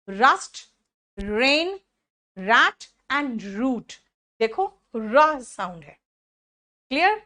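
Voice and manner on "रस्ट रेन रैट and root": each word stretched very slowly; slow, drawn-out words. Shown as a demonstration. Teacher to class, modelling sounds: slow, stretched words. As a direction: spell out रैट and root slowly for the class.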